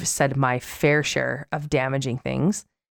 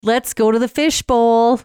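chipmunk voice; 7 semitones higher, 3 dB louder, slower than usual. Pretend. Continues chipmunk voice.

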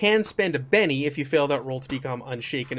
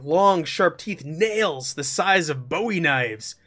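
slow, dark creature description; ominous narration; slower than usual. Acted. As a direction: build dread for the players. GM describes monster.

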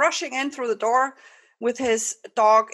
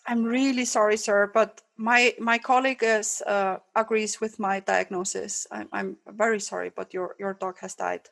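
sympathetic vet. Acted. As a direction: let the news sink gently. Vet repeats the verdict.

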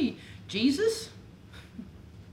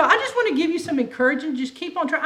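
mock pep talk, laughing; 3 semitones higher, 5 dB louder, faster than usual. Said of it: "that's the religious answer".

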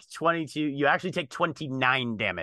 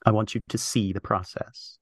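low, measured, deliberate voice with pauses; stern formal character; 4 semitones lower than usual. Acted. Character instructs Scion about the body, stern and formal. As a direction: give grave orders, lowered and deliberate.

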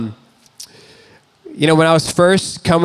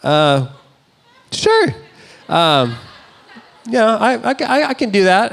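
much higher, stammering mock-flustered yes; flustered agreeing; 6 semitones higher than usual. Roommate confronts him about dishes, higher flustered stammer. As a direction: squeak out a caught-off-guard okay. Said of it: "I was like".

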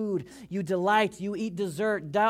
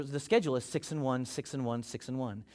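six and one said three times, each softer and lower; fading repetition; 4 semitones lower, 5 dB quieter than usual. Shown as a demonstration. Preacher drilling the rhythm into the congregation, fading softer. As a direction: let the phrase fade as you repeat it. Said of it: "repeated, fading".

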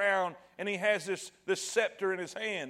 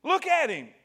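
raised, louder plea to the crowd; pleading Pilate; 6 semitones higher, 5 dB louder than usual. Retold or imitated. Pilate urging the crowd to pity, loud plea. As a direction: show him off, begging them to relent. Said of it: "it'd be like this".

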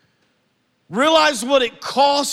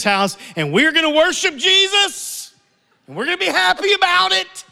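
grit out orders that turn into forced happiness; dad's forced cheer; 4 semitones lower, faster than usual. Retold or imitated. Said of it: "my dad turns around and he goes".

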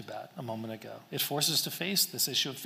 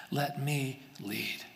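slowly, each word given room; a slow, slightly softened appeal; slow, gentle invitation; 2 semitones lower, 4 dB quieter, much slower than usual. Retold or imitated. Preacher voicing God's invitation to the congregation, slow and gentle.

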